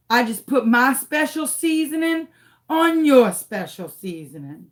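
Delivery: lightly voiced cocky bug; taunting roach. Roach to lady about her crawfish, lightly taunting. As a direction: draw out the words like a gloating little roach. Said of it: "it was like looking at me".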